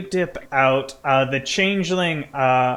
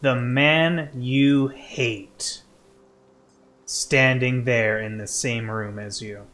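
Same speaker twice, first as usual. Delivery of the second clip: game master narration. Acted. Game master telling player of a hated enemy, dramatic narration. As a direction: let each phrase of the hatred land.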